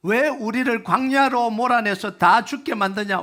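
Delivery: grumbling Israelites. Acted.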